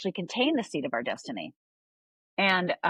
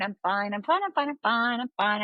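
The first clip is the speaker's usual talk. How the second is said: higher, mock-breezy rattle of reassurance; acted insistence on being fine; 4 semitones higher than usual. Outside self fending off concern, mock-breezy insistence. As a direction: lightly put on a cheerful front. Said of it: "the outside me was fine".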